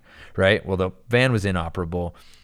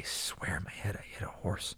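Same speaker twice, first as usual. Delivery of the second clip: breathy whisper, barely voiced; confiding hush under the breath; whispered aside; 12 dB quieter than usual. Real, not acted. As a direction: let it slip out as a secret whisper. Confessing his inner certainty.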